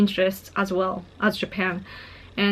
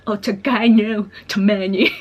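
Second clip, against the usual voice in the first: put-on American accent Japanese; 3 dB louder than usual. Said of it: "he was like".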